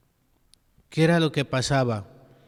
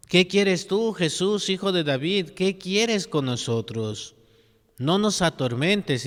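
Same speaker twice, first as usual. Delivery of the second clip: demon pleading; 7 semitones higher than usual. Retold or imitated. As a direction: plead with Jesus like a cornered demon. Priest voices the demon to Jesus.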